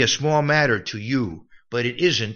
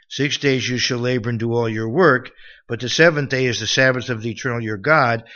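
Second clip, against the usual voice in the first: louder, emphatic recital of commandments; scripture reading; 5 dB louder than usual. Acted. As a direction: declaim the law to the congregation. Reads scripture aloud.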